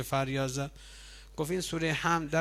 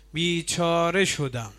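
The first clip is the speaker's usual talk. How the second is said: Iblis lament; slower than usual. Retold or imitated. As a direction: voice the devil crying out that he is ruined. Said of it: "شیطان میگه بیچاره شدم".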